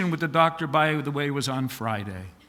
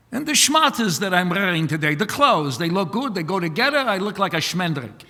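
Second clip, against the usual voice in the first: put-on Yiddish accent; 2 semitones higher, faster than usual. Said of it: "What's with the accent?".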